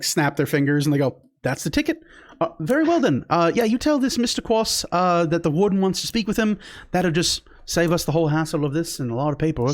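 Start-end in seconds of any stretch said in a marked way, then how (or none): 1.4-9.7 a cheery official glad to skip paperwork; relieved guard. Acted.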